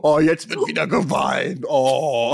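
hammed-up fake sob; mock crying. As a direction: fake a whiny cry.

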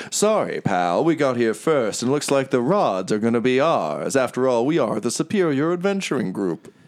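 smug rival. Acted. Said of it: "he's like".

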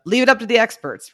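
said with ironic air quotes; air-quoted phrase. Retold or imitated. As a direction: put the phrase in quotation marks. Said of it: "quote unquote".

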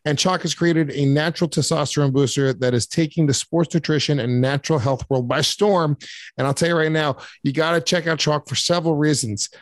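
hyped macho sponsor pitch; ad read. Acted. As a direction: boast like a gym-bro pitchman.

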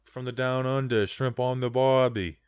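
put-on hammy Aussie catchphrase accent; mock Australian accent. Host showing off his accent to co-host, mock Australian. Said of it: "that's your, that's your accent".

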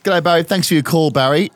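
mock radio host welcome; talkback radio host. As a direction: thank the caller in talkback style. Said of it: "In talkback style".

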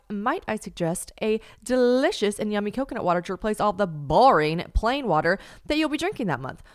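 bright upbeat sponsor read, pushing the product. Acted. Host reading a sponsor spot to listeners, upbeat ad voice. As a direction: sell it like a podcast ad.

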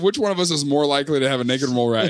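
rattled off fast; quick repeat. Retold or imitated. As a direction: fire the question back quickly. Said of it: "I said".

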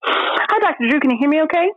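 talking around gauze after surgery; gauze in mouth. Real, not acted. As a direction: speak with gauze packed in mouth. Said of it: "have gauze in my mouth".

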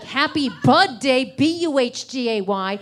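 mildly shouty, punched-out chant; emphatic mock Facebook blast; all-caps birthday post. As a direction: hammer each phrase like typed capitals. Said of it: "in all capital letters".

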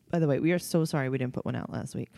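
talking through the hiccups; hiccuping between words. Real, not acted. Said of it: "I have the hiccups".

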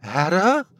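tearful croon, voice breaking; voice cracking. Acted. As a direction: let the voice crack on her name. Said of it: "he crooned as his voice cracked".

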